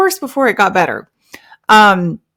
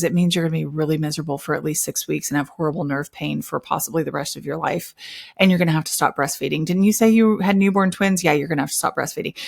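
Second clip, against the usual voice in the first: softer, fast and grim; heavy dramatic; 4 dB quieter, faster than usual. Retold or imitated. Urgent care nurse delivering grim news to new mother, mock heavy. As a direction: rattle off the bad news gravely. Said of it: "heavy and, and drama filled".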